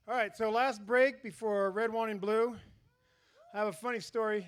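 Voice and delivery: winded from running; out of breath. Real, not acted. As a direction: talk while catching your breath. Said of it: "Sorry, I'm winded".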